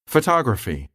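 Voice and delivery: "photography" stressed on TOG, phoTOGraphy; "photography" with the weight third from the end; stress third from last. Shown as a demonstration. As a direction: hit the second syllable of "photography". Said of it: "can be the third to the last syllable".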